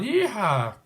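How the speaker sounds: high cowboy whoop yeehaw. Acted. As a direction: holler like a cowboy. Cowboy call.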